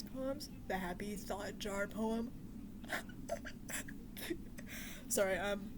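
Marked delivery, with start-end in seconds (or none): 2.3-5.0 high, breathy laugh half crying; teary laugh. Real, not acted. Laughing through tears over the sad poems. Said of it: "I'm not crying right now".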